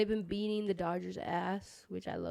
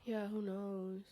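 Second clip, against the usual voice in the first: whisper; 9 dB quieter, much slower than usual. Real, not acted. Friend murmurs aside.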